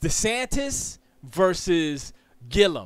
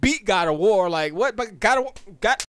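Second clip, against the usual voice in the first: usual speaking voice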